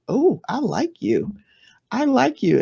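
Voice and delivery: lightly acted, drawn-out fondness; pleasant discovery. Finding out you like the introvert, lilting pleasant discovery. Voices warming to a quiet introvert.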